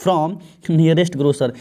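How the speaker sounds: very slow, word by word; slow dictation of the exam sentence; slow read-aloud. Shown as a demonstration. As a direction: spell the sentence out slowly for students. Teacher reading exam sentence slowly.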